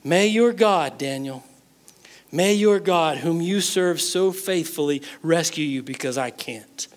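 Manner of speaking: quiet little prayer. Retold or imitated. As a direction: murmur it as a helpless king's prayer. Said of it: "offering a little prayer himself".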